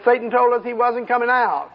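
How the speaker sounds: high, whining imp voice; mock whiny demon. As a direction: play the cowed demon tattling. Preacher voices a frightened demon.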